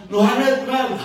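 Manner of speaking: high, loud customer call; imitated yell. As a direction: mimic her yelling her order from the car. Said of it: "Terus dia teriak lagi".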